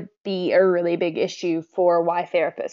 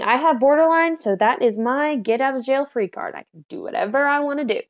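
lightly mocking, higher-pitched entitlement; mock excuse; 4 semitones higher than usual. Borderline person claiming a free pass, mildly mocked. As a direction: parody someone making excuses. Mimics an excuse they reject.

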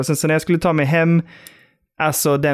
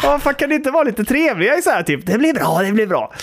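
mock pleading; 8 semitones higher than usual. His pleading reaction retold.

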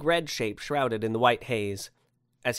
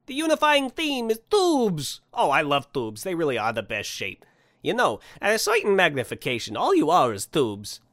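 high, loud proclamation easing into fond explanation; enthusiastic Santa; 5 semitones higher, 5 dB louder than usual. Acted. Santa extols his favorite shape to sceptic, enthusiastic. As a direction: proclaim it grandly, stretching the first words.

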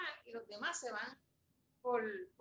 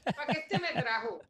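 laughing mock annoyance; 3 dB louder than usual. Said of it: "Yo estaba hasta enfogona".

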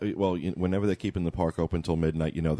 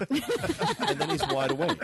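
mock jolt awake; slower than usual. Imitates Bob snapping awake.

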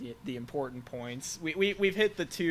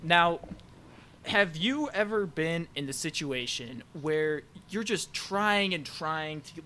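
cheesy infomercial pitch; ad read. Acted. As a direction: sell it like a TV ad. Mock sponsor ad read.

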